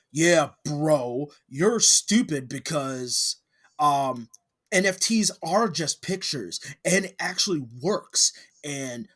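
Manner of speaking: mock worked-up bro rebuttal; hyper-emotional Logan Paul. Mocking Logan's response to critics, hyper-emotional. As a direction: imitate someone overheated, punching out the words. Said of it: "giving this hyper-emotional".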